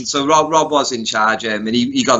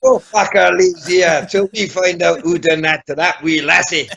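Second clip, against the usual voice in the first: hammed-up film tough-guy outburst; Francis Begbie; 6 semitones higher than usual. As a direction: rant it in a put-on Scottish accent. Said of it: "Francis Begbie in Trainspotting".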